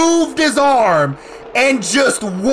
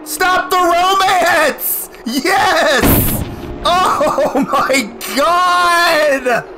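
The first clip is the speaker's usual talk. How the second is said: drawn-out, laughing cry of triumph; elated outburst; 4 semitones higher, much slower than usual. Real, not acted. Player finally beats the level, elated outburst. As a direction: stretch it out in giddy relief.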